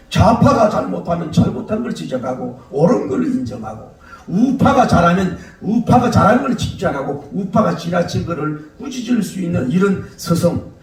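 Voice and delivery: normal talking voice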